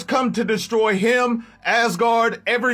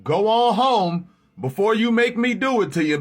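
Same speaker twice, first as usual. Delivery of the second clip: calm deep threat, a sigh in the middle; stern Thor; 4 semitones lower than usual. Acted. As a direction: lower king voice, held back. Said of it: "Thor comes down there like".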